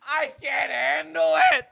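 tormented inner voice screaming behind laughter; drawn-out, very high mock-anguished wail; a singer. Imagining the star's hidden inner voice, hammed-up despairing scream. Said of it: "behind this laughter, is there a voice".

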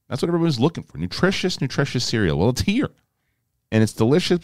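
upbeat host-read cereal ad; breezy read of a sponsor spot. Acted. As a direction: sell it like a friendly podcast ad.

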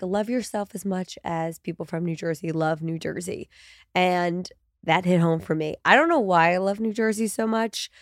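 blocked nose, stuffy voice; talking through heavy congestion; congested. Real, not acted. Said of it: "my voice is outrageous right now. I am still congested".

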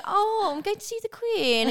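very high, slow caricature of British English; stereotypical British accent. Shown as a demonstration. Creator mocks Americans' idea of Britishness, caricature British accent. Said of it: "don't know a British accent like that".

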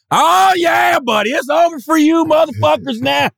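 high mock redneck shout; redneck whooping. Rednecks greeting white aliens, in a gloating mock shout. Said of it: "And the rednecks".

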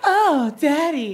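sexual moan. Pretend. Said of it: "a very extra, like, sexual moan".

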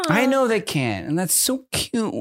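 high, drawn-out adoring coo; slow, high gushing; cutesy cooing. Real, not acted. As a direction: melt over how cute it is, slowly. Cooing over babies' helplessness.

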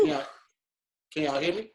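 muffled, like talking inside a microwave; boxed-in, garbled call audio; muffled bad connection. Real, not acted. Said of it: "it sounds like you're in a microwave".

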